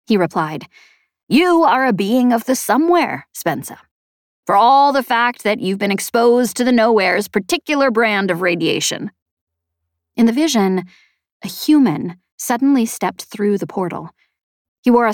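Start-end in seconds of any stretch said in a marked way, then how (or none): 1.3-9.1 lightly voiced knowing explainer, raised pitch; emphatic, lightly put-on character voice; Chet. Chet tells Spensa what she is, lightly voiced and emphatic.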